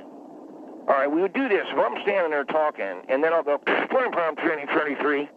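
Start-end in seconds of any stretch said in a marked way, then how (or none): 3.6-5.3 clipped police radio call, slow; fake radio call. Shown as a demonstration. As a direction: talk into a radio like a cop. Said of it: "He just did a fake radio call".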